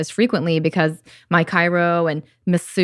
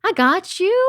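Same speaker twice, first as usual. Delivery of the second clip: high and tender; a light touch of soothing; reassuring; 12 semitones higher than usual. Retold or imitated. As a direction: comfort it like a friend. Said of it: "It's kind of like".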